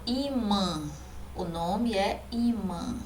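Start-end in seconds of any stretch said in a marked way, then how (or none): 0.0-0.8 "imã" softly, its final ã sounded through the nose; nasal final vowel. Shown as a demonstration. Teacher showing what the tilde does, nasal ã in "imã". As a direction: let the ã ending "imã" hum nasally. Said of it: "torna o som do a nasal".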